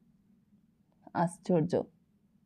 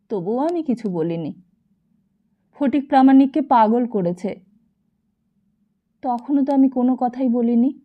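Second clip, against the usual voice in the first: louder aggrieved lament; a broken man listing wrongs; hammered grief, somewhat raised; lamenting husband; 3 semitones higher, 3 dB louder than usual. Acted. Sadananda lamenting injustices.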